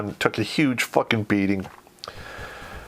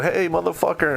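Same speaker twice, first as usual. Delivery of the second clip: mild mock yell, pitched higher; retold yell; 6 semitones higher than usual. Cadre yelling after a lost recruit in the dark, mild mock yell. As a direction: call it out like a drill cadre in the dark. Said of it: "were yelling".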